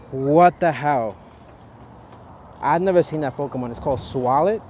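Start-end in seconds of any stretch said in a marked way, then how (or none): 0.1-1.2 exasperated. Real, not acted. Pokemon fled, disbelief.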